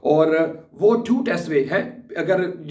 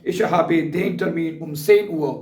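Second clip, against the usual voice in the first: very slow, every German word spelled out for learners; slow dictation; much slower than usual. Shown as a demonstration. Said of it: "दूसरा जुमला कह सकते हैं".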